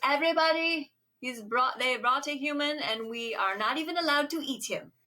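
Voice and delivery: rally the crowd in mock fury; a hammed-up pissed-off vampire queen; mock outraged announcement. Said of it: "she's very pissed".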